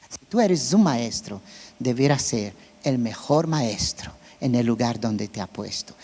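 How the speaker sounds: usual speaking voice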